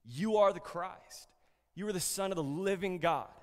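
booming proclamation; voicing the Father's revelation.

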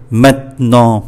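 maintenant as maint-nant, the T pressed. Shown as a demonstration. Teacher showing learners where to push, pressed T. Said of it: "chữ T này mình nhấn một cái".

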